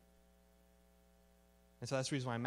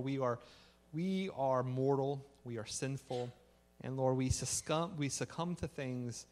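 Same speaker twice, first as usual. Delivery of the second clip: leading prayer. Real, not acted. So let's pray.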